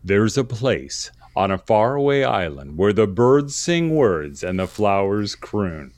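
slow, measured trailer narrator; announcer voice. Pretend. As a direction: intone it like a movie trailer. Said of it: "put on my announcer voice".

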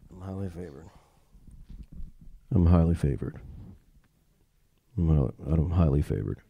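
very low, soft, unconvinced mumble; deep, lifeless mock recital; mock half-hearted congregant. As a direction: imitate a listless churchgoer, barely saying it. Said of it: "you're going like this".

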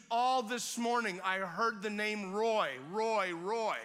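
loud, slow, awestruck; amazed exclaim. Retold or imitated. Healed woman amazed hearing the preacher's name. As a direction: stretch it out in disbelief.

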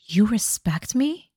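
slow, floored question; lightly voiced stunned Ken; stunned disbelief. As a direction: say it like you can't believe it. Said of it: "And he is floored".

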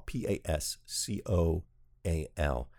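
P A S C O A L said letter by letter; spelling it out. Shown as a demonstration. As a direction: spell out P A S C O A L one letter at a time. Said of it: "I'll spell that for you too".

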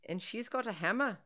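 lightly faked Irish lilt; Irish accent attempt. Friend narrating the film plot, mock Irish accent. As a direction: try an amateur Irish accent. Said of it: "tried to talk in an Irish accent".

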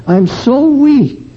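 pleading cry. Retold or imitated. Pleading prayer, voice rises.

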